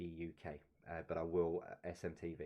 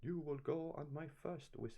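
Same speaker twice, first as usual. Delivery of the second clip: a bad Scottish accent pitched higher; awful Scottish accent; 8 semitones higher than usual. Quiz host imitating the Gladiators referee in Scottish. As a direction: do a Scottish referee badly on purpose. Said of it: "That's an awful Scottish accent".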